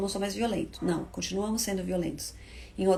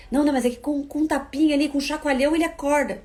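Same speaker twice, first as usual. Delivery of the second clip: defensive parent; 5 semitones higher, 4 dB louder than usual. Retold or imitated. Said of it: "imagined parent objecting".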